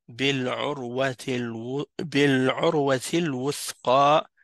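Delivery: measured recital of "بالعروة الوثقى", long final A; final alif prolonged. Shown as a demonstration. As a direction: hold the end of "الوثقى". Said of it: "ici, il y a un alif".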